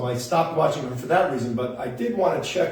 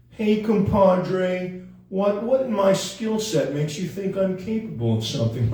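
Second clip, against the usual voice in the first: Owen Wilson; 5 semitones higher than usual. Shown as a demonstration. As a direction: stretch the opening like a movie-star impression. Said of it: "Owen Wilson, something like".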